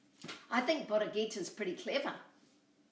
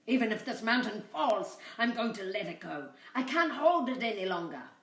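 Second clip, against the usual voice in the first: tired coyote; 2 semitones higher, 5 dB louder than usual. Acted. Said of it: "At last he said".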